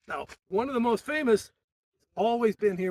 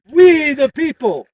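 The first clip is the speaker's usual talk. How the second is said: loud, higher, slowed call line; yelled call; 6 semitones higher, 13 dB louder, slower than usual. Shown as a demonstration. Organizer calling out for the crowd to answer, yelling. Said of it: "I'm gonna yell".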